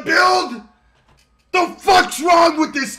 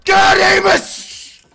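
loud, higher cry of disbelief; drawn-out stunned shout; exasperated yell; outraged disbelief; 4 semitones higher, 4 dB louder, much slower than usual. Real, not acted. Disbelief at game event.

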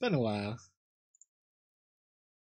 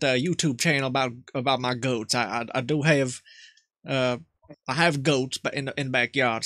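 lightly voiced old country man; Jebediah. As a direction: play a nervous rural grandpa. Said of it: "Jebediah might do".

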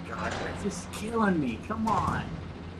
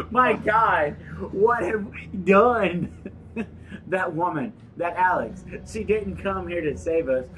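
hammed-up dramatic Russian accent. Player reading a game note on request, mock Russian accent. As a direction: play up the Russian accent, fighting giggles.

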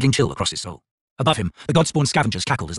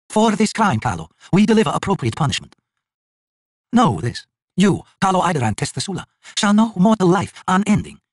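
god pronouncing a curse; 8 semitones higher than usual. A narrator's reading. Krull curses the High King, solemn and intoned. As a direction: intone the sentence like a judge of gods.

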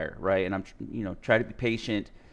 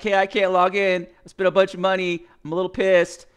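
higher, louder mock annoyed ticket; retold complaint; 7 semitones higher, 5 dB louder than usual. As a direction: voice the irritated support ticket.

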